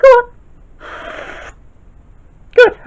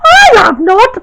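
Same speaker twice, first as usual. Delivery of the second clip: louder, huffy denial; indignant protest; 7 dB louder, slower than usual. Acted. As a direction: snap back offended. Protesting sissy taunt.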